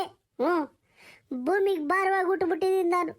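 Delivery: acted tearful self-pity; tearful lament. Woman pouring out her misery to the older woman consoling her, tearful. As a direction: lament through held-back sobs. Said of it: "ಬಾ, ಅಳ್ಬೇಡ".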